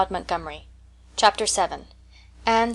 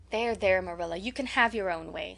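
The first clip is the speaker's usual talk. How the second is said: reassuring; 8 dB quieter than usual. A narrator's reading. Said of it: "said Matthew reassuringly".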